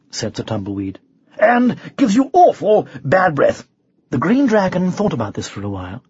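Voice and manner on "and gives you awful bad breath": high-pitched airy warning; lightly voiced knight; breezy knight. A narrator's reading. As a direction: add it lightly, as advice. Knight bluffing the dragon lightly.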